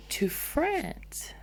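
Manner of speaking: breathy, high surprised question; surprised whisper. Real, not acted. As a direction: whisper it back in disbelief. Surprised at hearing a new word.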